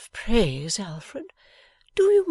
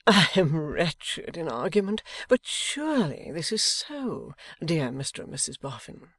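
innocent appeal; 6 semitones higher, 4 dB louder than usual. A narrator's reading. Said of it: "with an innocent air".

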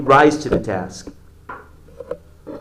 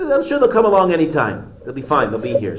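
higher, louder calm reassurance; reassuring wife; 3 semitones higher, 5 dB louder than usual. Retold or imitated. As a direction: brush him off gently, hide the news. Wife reassures husband, hiding bad news.

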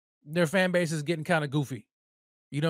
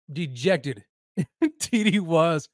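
laughing mid-word; 3 semitones lower, much slower than usual. Real, not acted. Laughing at rival fan.

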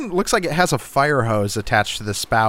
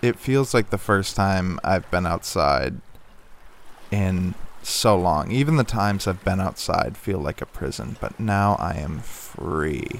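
dreamy relief; 3 semitones lower, 4 dB quieter than usual. Acted. In-character relief at freedom.

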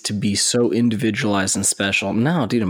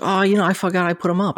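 higher, mock clueless neighbor voice; higher-pitched mock of a clueless neighbor; neighbor's excuse; 10 semitones higher than usual. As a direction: play the neighbor as dopey and careless. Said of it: "And he's like".

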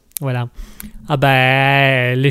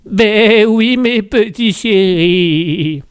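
Mouton's voice; 3 semitones higher, 3 dB louder, much slower than usual. Acted. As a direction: stretch it out sweetly to darlings. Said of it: "Mouton qui nous fait".

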